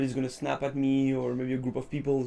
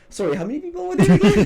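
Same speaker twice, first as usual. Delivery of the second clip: high, loud, fast baffled question; lost and confused; 8 dB louder, faster than usual. Retold or imitated. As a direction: blurt it out, totally lost in the count. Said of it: "eventually I was like".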